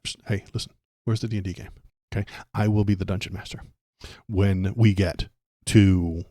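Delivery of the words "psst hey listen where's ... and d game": unvoiced hushed whisper. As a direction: whisper it like a secret inmate. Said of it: "you'll be like".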